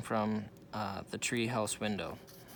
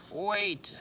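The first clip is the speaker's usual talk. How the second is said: cried out; 9 semitones higher than usual. A narrator's reading. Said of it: "cried Captain Bones".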